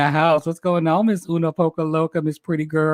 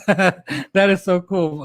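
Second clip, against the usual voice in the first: laughing; 3 semitones higher, much slower than usual. Real, not acted. Delighted by a super sticker.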